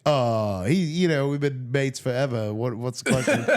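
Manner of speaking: badly faked Aussie mate; jokey, unconvincing Australian voice covering for a pal; terrible Australian accent. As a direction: put on a hammy Australian accent. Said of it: "that's a terrible Australian accent".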